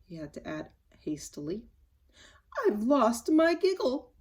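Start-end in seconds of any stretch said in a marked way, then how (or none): 2.7-4.1 slow, higher, miserable cry; miserable exclaim. Acted. Little Miss Giggles telling Mister Happy, miserably and slowly. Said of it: "she exclaimed miserably".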